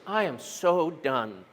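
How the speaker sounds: slow, sagging and soft; mild mock defeat, slow; weary first person. Shown as a demonstration. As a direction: let it sink like you're done. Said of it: "First person".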